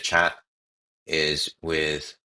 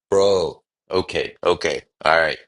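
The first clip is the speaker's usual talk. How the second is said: excited; 5 dB louder than usual. Real, not acted. Thrilled by script read.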